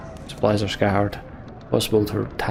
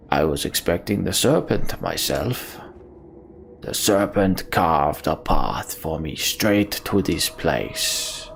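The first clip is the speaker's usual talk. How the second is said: lower, slow, brooding character voices; grim warriors; 3 semitones lower, slower than usual. Acted. Heroes and villain trading threats before the fight, grim and slow. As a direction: play it like a hardened warrior facing a monster.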